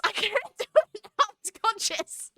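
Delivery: high, fast, laughing protest; real flustered laughter, loud and rushed; self-conscious. Real, not acted. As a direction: giggle helplessly as you give up. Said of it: "you made me self-conscious now".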